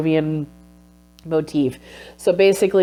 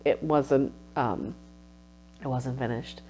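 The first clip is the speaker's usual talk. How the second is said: soft, fading, close to tears; quiet sorrow; 4 dB quieter than usual. Retold or imitated. Grieving the unfinished masterpiece, softly sorrowful. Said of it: "I was like".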